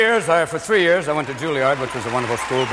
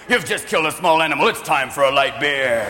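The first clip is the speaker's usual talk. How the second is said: beer commercial announcer; 5 semitones lower than usual. Acted. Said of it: "these beer commercials showing manly men".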